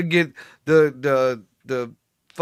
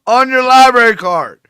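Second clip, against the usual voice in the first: higher and louder, in disbelief; incredulous outburst; 7 semitones higher, 7 dB louder than usual. Real, not acted. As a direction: hammer home how absurd it is. Incredulous rant about library card.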